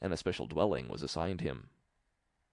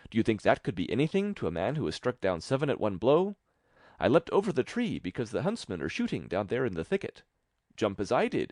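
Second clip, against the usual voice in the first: raised, cocky bragging; lightly voiced boasting tailor; 3 semitones higher than usual. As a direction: brag with a light swagger.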